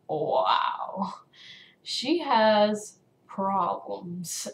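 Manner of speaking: slow, drawn-out disbelief; stunned onlooker. Retold or imitated. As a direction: imitate a bystander slowly passing judgement. Onlooker's stunned judgement, acted.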